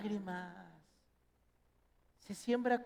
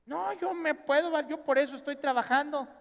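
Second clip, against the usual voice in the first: smug self-assurance; 7 semitones higher, 4 dB louder than usual. Retold or imitated. Imitating self-confident worker.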